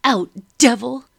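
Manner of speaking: a fierce exorcising yell; shout. A narrator's reading. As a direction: drive the devil out with a roar. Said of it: "Madam shouted".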